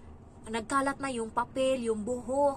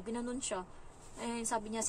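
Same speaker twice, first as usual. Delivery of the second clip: usual speaking voice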